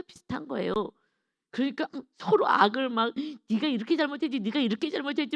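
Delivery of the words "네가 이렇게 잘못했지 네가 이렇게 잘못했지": high, jabbing accusing repeat; mock accusation. Two believers quarrelling, each a high mock accusation. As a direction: point the finger, higher, at the other.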